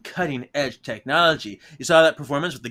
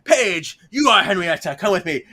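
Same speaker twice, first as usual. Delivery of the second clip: higher, louder grand proclamation; grand pirate ghost; 5 semitones higher, 4 dB louder than usual. Retold or imitated. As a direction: claim her like a stage pirate. Ghost claims Paige.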